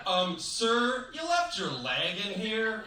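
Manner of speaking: high, slow, hesitant politeness; timid polite man. Retold or imitated. Man in line telling the escapee about his leg, high and hesitant.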